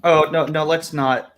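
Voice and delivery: normal talking voice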